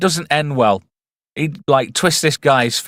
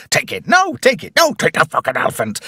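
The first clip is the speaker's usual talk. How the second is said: mock yell; 6 semitones higher than usual. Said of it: "That is just".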